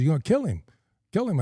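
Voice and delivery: high-pitched retold disbelief; acted incredulous exchange. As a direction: imitate a startled back-and-forth question. Acted exchange about killing badger.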